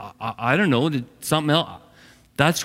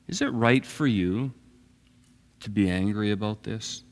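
soft, gentle question, much softer; gentle and quiet; 5 semitones lower, 6 dB quieter than usual. Acted. God gently questions angry Jonah, softly and tenderly. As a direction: ask it tenderly, barely above a murmur. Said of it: "quite gentle and, and quiet about it".

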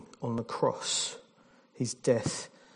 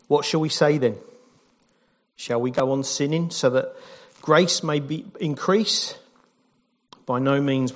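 scripture reading. Acted. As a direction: read the passage with conviction. Reads Romans aloud.

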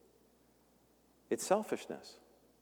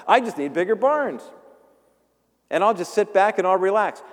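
gloating farmer, pitched up and loud; smug rich farmer; 5 semitones higher, 4 dB louder than usual. Acted. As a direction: play the greedy farmer crowing about his barns.

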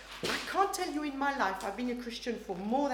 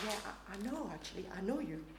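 gentle. Retold or imitated. Jesus tenderly reassuring the Samaritan woman, gentle. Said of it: "his voice was gentle".

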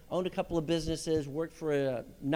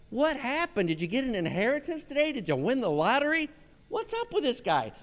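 higher, puzzled quick questions; acted-out amazement, pitched up; mock bafflement; 5 semitones higher than usual. People puzzled by the boss's good mood, mock bafflement.

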